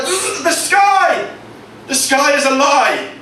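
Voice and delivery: very high, grave proclamation; a tiny plant announcing doom; dramatic nettle revelation. Acted. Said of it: "He's like".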